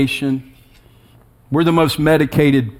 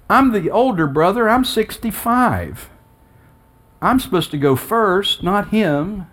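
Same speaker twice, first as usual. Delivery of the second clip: higher-pitched pleading lament to God; anguished questioning; 4 semitones higher than usual. Retold or imitated. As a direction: question God from a place of grief. Acting out his grieving questions to God.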